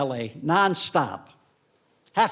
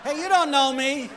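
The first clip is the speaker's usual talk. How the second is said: offended retort; 10 semitones higher, 4 dB louder than usual. Retold or imitated. Offended retort to flight attendant.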